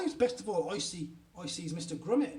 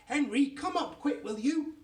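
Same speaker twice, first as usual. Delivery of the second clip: raised, higher urgent call; shouting for help; 7 semitones higher, 4 dB louder than usual. A narrator's reading. Mummy summoning daddy to the bathroom, urgent shout. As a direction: call upstairs for someone to hurry. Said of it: "And she shouts".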